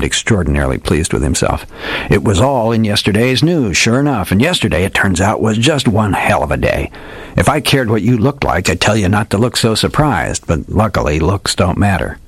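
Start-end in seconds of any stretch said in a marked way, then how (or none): 2.1-12.2 put-on hardboiled old detective. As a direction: play the old gumshoe spinning a dramatic yarn. Old detective tells his tale.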